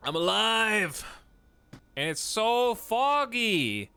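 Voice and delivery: loud, high cry of relief; excited shout. Real, not acted. Streamer cheering as her character spawns, loud excited cry. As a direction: shout it out, thrilled to be alive.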